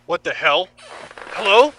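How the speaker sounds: loud, high calls into the dark; calling out alarmed. Acted. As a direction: shout to find anyone there. Waking captive calling out.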